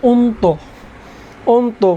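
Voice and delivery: অন্ত as onto, with o at both ends; final o sounded. Shown as a demonstration. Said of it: "হবে কি?". (অন্ত উচ্চারণ ওন্তো)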